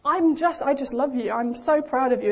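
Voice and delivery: firm, emphatic declaration of pride; fatherly insistence. Acted. The Father reassuring a doubting child, firm insistent pride. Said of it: "what the Father shouts the loudest".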